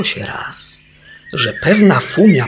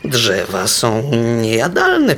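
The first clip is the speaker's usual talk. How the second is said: scolding; slower than usual. Acted. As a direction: lecture the beaver gently. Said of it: "powiedziała strofująco fumica".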